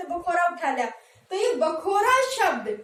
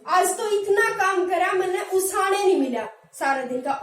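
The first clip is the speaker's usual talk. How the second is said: everyday Haryanvi village talk; Haryanvi accent. Shown as a demonstration. Teacher giving a Haryanvi example of उसाण. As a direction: say it like a tired Haryanvi farmer. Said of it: "हमारा अंदाज क्या है".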